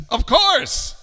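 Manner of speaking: high, loud burst of certainty; exclamation. Acted. King answers the hoopoe, exclaiming high. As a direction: call it out as obvious.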